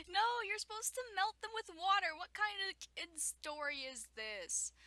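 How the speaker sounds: loud, high, worked-up objection; indignant correction. Real, not acted. Reader correcting the kid story about witches, indignant. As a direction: object as if the story broke the rules.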